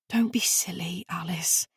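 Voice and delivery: gentle whisper, no voice; whispered comfort. Acted. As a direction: hush her kindly in a whisper.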